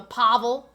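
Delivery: Pavel with a weighted first syllable, PA-vel; stress on first syllable. Shown as a demonstration. Streamer checking a name's pronunciation, first syllable of Pavel stressed. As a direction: lean on the "Pa" of Pavel. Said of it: "put a lot of emphasis".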